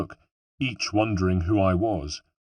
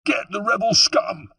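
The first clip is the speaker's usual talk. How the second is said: put-on much higher, shouted order in a Genoese accent; Genoese soldier shout; 12 semitones higher than usual. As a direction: yell it as a Genoese soldier rallying the troops. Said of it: "approximation of the voice and accent of a Genoese soldier".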